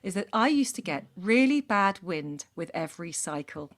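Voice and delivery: measured storytelling read-aloud; deliberate narration with emphatic phrasing; letter read aloud. A narrator's reading. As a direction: read it out like a personal confession story. Reads a listener's letter aloud.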